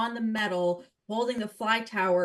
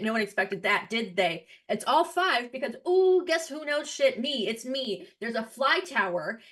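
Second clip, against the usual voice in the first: stage manager voice. Acted. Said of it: "this is my stage manager voice".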